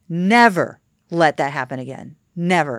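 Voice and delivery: firm, measured mock warning; stern boss, leaning on "never"; retold stern reprimand. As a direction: imitate a boss laying down the law, NEVER set apart.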